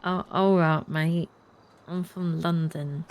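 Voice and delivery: first clumsy go at a London accent; attempted London accent. Shown as a demonstration. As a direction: imitate a Londoner, drawing out the place name. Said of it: "I'm trying to do your accent".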